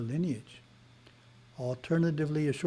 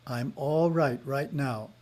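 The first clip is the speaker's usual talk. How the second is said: slow affirmation; slower than usual. Shown as a demonstration. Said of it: "repeating nine times the affirmation".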